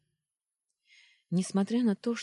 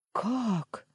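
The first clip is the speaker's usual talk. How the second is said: sharp gasping question, higher; gasped; 9 semitones higher than usual. Acted. Girl shocked by boyfriend's news, gasping question. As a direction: catch the breath on Как. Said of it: "ахнула я".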